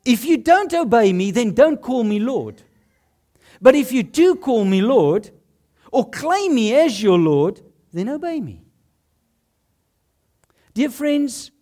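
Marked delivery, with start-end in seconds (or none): 0.0-8.6 a touch louder, firm command; light firm voice of Jesus; a hint of Jesus speaking. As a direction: lay down the condition plainly. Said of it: "Jesus is saying".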